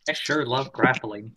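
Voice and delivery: dry, slow deadpan delivery; sarcastic. Acted. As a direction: say it with heavy irony. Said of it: "you're saying that in a sarcastic tone".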